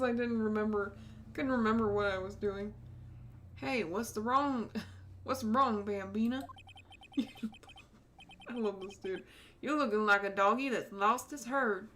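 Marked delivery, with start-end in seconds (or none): 3.6-6.4 a hint of a Southern cop teasing; Tennessee accent. Marshall teasing the detective, light Tennessee accent. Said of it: "I get to do that accent". 9.6-11.9 a hint of a Southern cop teasing; Tennessee accent. Marshall teasing the detective, light Tennessee accent. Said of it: "I get to do that accent".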